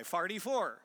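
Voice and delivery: forty-four pronounced farty-four; forty-four with AR in place of OR; St. Louis pronunciation. Shown as a demonstration. Spelling out the local way for the audience, St. Louis pronunciation. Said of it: "F A R T Y, not F O R T Y".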